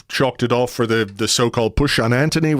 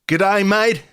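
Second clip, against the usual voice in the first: put-on Australian accent; 8 semitones higher than usual. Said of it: "as they say".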